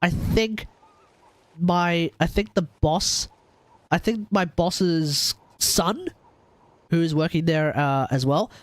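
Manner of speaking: nasal from a cold; stuffy cold voice; blocked nose. Real, not acted. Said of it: "if I sound a bit nasally".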